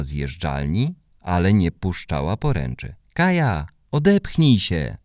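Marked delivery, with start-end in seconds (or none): 3.1-5.0 put-on girl calls to friend stuck on slide, urging; calling out. A narrator's reading. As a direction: call up to Kaja to push off. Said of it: "zawołałam".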